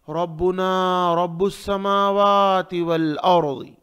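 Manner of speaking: रब्बुना with thick ra and drawn vowels; heavy ra recitation. Shown as a demonstration. Teacher models the verse, heavy ra recitation. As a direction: recite रब्बुस समावाति evenly, rounding every ra. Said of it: "रा मोटा".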